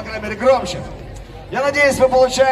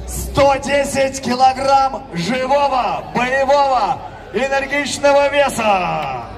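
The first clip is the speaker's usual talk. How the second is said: boxing announcer; 3 semitones higher, slower than usual. Acted. Fighter weight intro.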